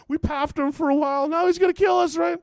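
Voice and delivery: high, loud frightened wail; hammed-up, high-pitched dread; mock panic. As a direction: cry it out as a terrified runaway. Fleeing guys panic about him.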